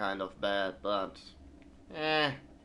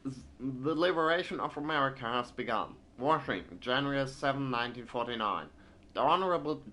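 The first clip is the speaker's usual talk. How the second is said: put-on thick American accent; 3 semitones higher, faster than usual. Gamer voicing a newspaper writer, thick American accent. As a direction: read the bulletin in a heavy American accent. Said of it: "has a very thick American accent".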